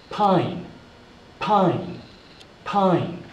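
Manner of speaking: "pine" with a long eye vowel, falling; long i sound. Shown as a demonstration. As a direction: model each "pine" separately for learners. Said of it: "this is a long sound".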